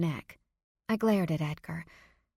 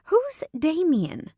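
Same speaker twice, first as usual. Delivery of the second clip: high, loud and slow, startled; alarmed question; 11 semitones higher, 6 dB louder, slower than usual. Acted. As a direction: ask it in sudden alarm. Mother alarmed by unknown name.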